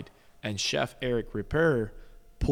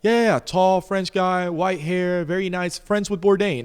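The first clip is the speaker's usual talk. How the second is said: eager; 9 semitones higher, 8 dB louder than usual. Retold or imitated. Dad eagerly describing Ripert.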